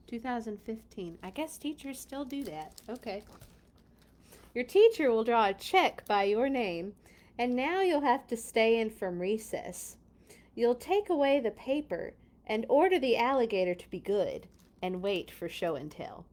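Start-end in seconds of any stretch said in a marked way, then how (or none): 4.5-16.3 clear, even picture-book read; storybook narration. A narrator's reading. Reader telling children of missed recess, measured storybook narration. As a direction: tell it in measured phrases to children.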